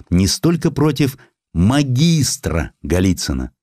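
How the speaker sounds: ordinary delivery, nothing marked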